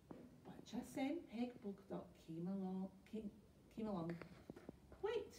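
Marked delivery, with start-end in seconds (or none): 5.0-5.3 high-pitched interrupting call; crying out. A narrator's reading. Pirate interrupting the plank walk, crying out. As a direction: call out to halt them, without much volume. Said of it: "she cried".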